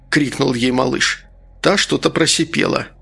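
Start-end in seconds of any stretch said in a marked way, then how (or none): none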